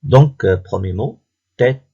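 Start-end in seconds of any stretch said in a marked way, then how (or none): 1.6-1.8 "tête" slowly, final -te sounded apart; deliberate two-beat "tête"; split into syllables. Shown as a demonstration. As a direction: count out "tête" in two beats. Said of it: "deux syllabes".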